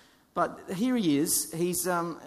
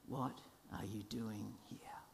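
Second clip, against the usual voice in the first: much softer, whispered question; quiet whisper; 5 semitones lower, 15 dB quieter than usual. Acted. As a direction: breathe the question gently. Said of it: "that quiet little question".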